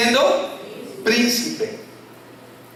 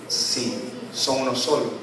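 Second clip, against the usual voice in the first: calm answer; 8 semitones lower, 6 dB quieter than usual. Acted. Pastor's answer to the puzzled listener.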